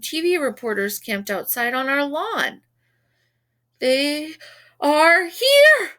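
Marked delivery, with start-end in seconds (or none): 3.8-5.9 high, loud excited shout. A narrator's reading. Reporter spotting the boys at the door, loud high shout. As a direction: call out to the whole crew. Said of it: "shouted one of".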